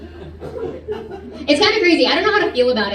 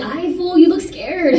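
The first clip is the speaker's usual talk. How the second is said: put-on Mexican accent; 4 semitones higher, slower than usual. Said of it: "or as Mexicans call it".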